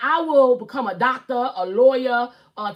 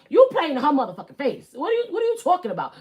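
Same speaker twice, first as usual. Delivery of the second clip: louder, fast, indignant telling-off; mock host outburst; 3 semitones higher, 3 dB louder, faster than usual. Host confronting a husband who disrespects his wife, indignant. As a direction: snap at him like a fed-up host. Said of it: "I'm like".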